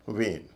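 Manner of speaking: "वेन" as vein with long ay. Shown as a demonstration. Teacher modelling vein for students, long vowel. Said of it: "लंबा ए".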